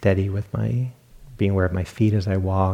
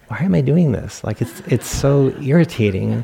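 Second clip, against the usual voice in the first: higher, half-laughing exasperated self-talk; mock irritation; 5 semitones higher than usual. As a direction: replay your own irritation, amused by it. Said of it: "This is irritating".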